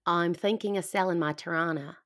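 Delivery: passable Australian accent, learner's attempt. Canadian guest finishing the copied sentence, decent Australian accent. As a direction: copy an Australian accent fairly well. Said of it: "the end was pretty good".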